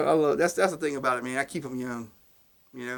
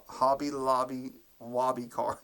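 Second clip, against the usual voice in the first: Hobby Lobby Wobby said slowly, each word apart; slower than usual. Shown as a demonstration. Telling his wife about a discount card, slowly. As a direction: ease through the tongue twister slowly. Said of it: "I gotta say that slow".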